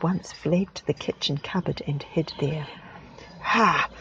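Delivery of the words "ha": put-on loud, slow old farmer's bellow. Great-granddad bellowing at the American, loud and slow. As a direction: roar it at the whole room. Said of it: "bellowed Great-Granddad".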